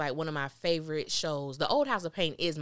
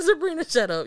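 much higher, louder put-down; loud retort; 11 semitones higher, 10 dB louder than usual. Real, not acted. Viewer telling Sabrina off through the screen, high and loud. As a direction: snap back at the TV character.

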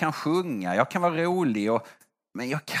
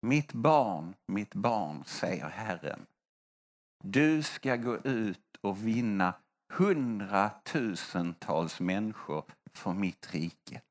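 a hint of a solemn, lowered prophecy voice, slowed; prophetic voice; 7 semitones lower, 6 dB quieter, slower than usual. The interpreter gives the prophecy to young Bosse, lightly intoned solemn prophecy. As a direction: intone it softly like the Lord speaking. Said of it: "Och så plötsligt".

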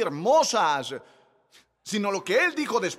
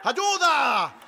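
a sharp, higher cry of ayuda; cry for help; 8 semitones higher, 3 dB louder than usual. Retold or imitated. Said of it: "era gritar". (grito de auxilio, agudo)

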